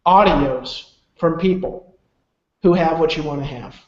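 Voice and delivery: measured delivery with weighty pauses; retold solemn charge. Mentor demanding a promise face to face, deliberate and solemn. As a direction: impart it as a mentor's rule, pausing between phrases.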